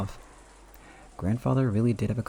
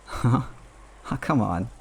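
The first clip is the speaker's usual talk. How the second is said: startled huh; sudden disbelieving huh; surprised; 2 semitones higher, 4 dB louder, slower than usual. Acted. Battler reacts in disbelief.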